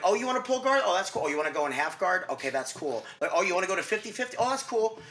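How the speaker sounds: mock the competitor who goes along with anything; mock easygoing competitor. Mocking casual, passive competitor.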